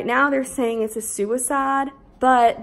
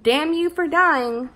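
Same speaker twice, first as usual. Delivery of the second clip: slow, higher and louder mocking curse; mock bitter curse; 6 semitones higher, 4 dB louder, slower than usual. Imitating Kay cursing the dead girl, slow mock outrage. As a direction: drag it out with scorn.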